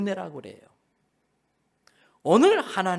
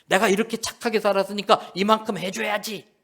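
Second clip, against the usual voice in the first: louder, mildly indignant demand; mock anger; 3 semitones higher, 5 dB louder than usual. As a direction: act entitled and a touch angry. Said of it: "이런 사람은 막 화를 냅니다". (살짝 화내며 요구하는 흉내)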